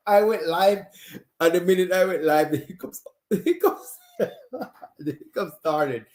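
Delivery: high, giggling through words; laughing. Real, not acted. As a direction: laugh while you explain. Laughing at sudden hiccups.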